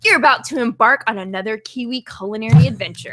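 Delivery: letter read aloud in her own accent; reading a fan letter. Shown as a demonstration. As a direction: read the note to the audience plainly. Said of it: "In my regular accent".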